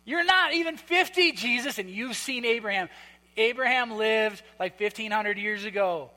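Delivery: mocking, incredulous jab at Jesus; scoffing Pharisee, dripping sarcasm; sarcastic. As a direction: sneer it like a cutting put-down. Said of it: "Okay, this is sarcasm".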